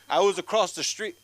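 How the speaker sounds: loud, high-pitched holler; outraged yell; indignant shout. Retold or imitated. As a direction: shout it as if across a street. Relative heard him from afar.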